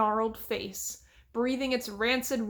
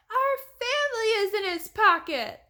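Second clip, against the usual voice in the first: much higher, urgent plea; desperate cry; 11 semitones higher, 5 dB louder than usual. A narrator's reading. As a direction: cry out to save the family. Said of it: "Daphne cried".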